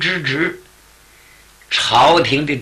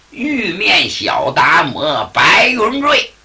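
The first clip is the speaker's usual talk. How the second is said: grand proclamation. Acted. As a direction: announce his pedigree like a herald. Taoist proudly announces lineage.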